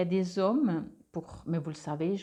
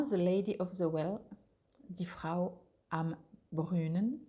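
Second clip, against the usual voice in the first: English and German in a French accent; 3 dB quieter than usual. Real, not acted. Card reader translating the deck's title for viewers, French accent. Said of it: "Excusez-moi pour mon accent".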